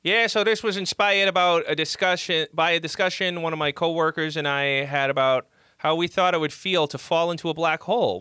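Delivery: put-on Boston accent reading aloud; Massachusetts accent. Shown as a demonstration. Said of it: "I'll do my Massachusetts accent".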